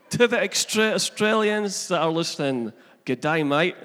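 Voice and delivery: put-on stereotypical Australian accent; hammed-up Aussie greeting accent. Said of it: "my very best stereotypical Australian accent".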